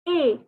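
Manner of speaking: est said as a plain A, S and T silent; French est. Shown as a demonstration. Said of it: "is pronounced as".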